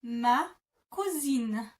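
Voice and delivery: "Ma cousine" said slowly, nasal "cousine" as /ma ku-zin/; slow French "Ma cousine", each sound clear; French pronunciation demo. Shown as a demonstration. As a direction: model "Ma cousine" for a learner. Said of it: "you would say".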